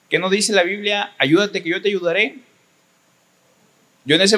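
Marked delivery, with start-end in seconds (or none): 0.1-2.4 a touch higher, mocking his mother's preachy scolding; lightly voiced scolding mom quoting scripture; mother's reproach.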